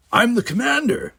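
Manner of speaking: captain firmly asserting command over the cadet; firm reminder. A narrator's reading. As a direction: pull rank, firmly. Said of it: "Sulu reminded her firmly".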